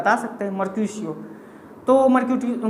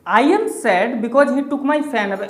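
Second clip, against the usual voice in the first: slow, deliberate reading of the example sentence; much slower than usual. Shown as a demonstration. Teacher dictating the pun sentence to students, slow and deliberate. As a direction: read it out word by word for the class. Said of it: "अब इस fan word को ध्यान से देखिए".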